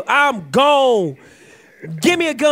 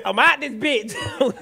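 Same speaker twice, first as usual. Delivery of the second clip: ordinary talk, nothing marked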